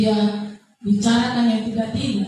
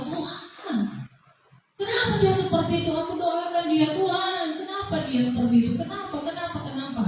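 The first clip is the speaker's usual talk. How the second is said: retold tearful cry; 4 semitones higher, 5 dB quieter, faster than usual. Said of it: "saya menangis menjerit kepada Tuhan".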